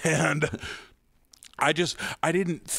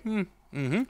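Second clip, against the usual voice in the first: tight-lipped polite hum; 5 semitones higher than usual. Retold or imitated. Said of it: "the kinda tight-lipped half smile and a nod".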